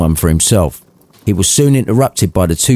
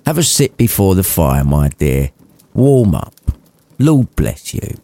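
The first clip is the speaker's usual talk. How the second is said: caring. Acted. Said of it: "to caring".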